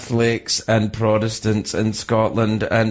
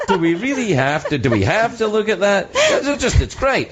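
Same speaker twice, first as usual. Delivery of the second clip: pained protest; 9 semitones higher than usual. Retold or imitated. Acts out his own protest to wife.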